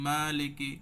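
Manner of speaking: slow Maliki with the ee after fi held long; drawn-out vowel. Shown as a demonstration. Teacher showing students the long ee vowel. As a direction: stretch the ee in মালিকি. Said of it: "ফির পরে ইটা টান দিলাম".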